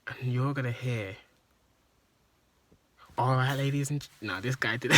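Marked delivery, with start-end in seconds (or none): 3.2-4.1 lightly put-on radio presenter; louder show-opening announcement; radio presenter impression. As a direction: start up a radio presenter act. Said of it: "he did an impression".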